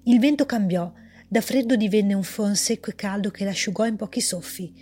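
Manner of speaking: measured, even storyteller reading; story narration. A narrator's reading. Author reading her story aloud, calm narration. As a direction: read the tale calmly to listeners.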